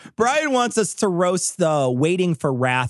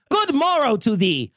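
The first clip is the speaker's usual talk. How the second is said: high, slow hammy olde English; old-timey voice; 7 semitones higher than usual. Pretend. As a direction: ham up a medieval jester insult. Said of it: "your worst old-timey voice".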